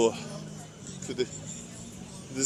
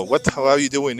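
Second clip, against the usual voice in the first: put-on light Jamaican accent greeting; casual Jamaican street greeting. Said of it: "in Jamaican accent".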